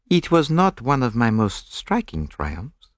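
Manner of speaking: put-on slow, crestfallen Belgian accent; crestfallen French accent. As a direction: admit defeat with a French lilt. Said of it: "rather crestfallen".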